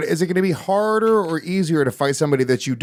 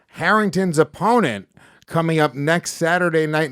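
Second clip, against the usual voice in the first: ring announcer intro; 3 semitones lower than usual. Acted. Host hyping up the fighter for the crowd, announcer style. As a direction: stretch the names out like a ring announcer.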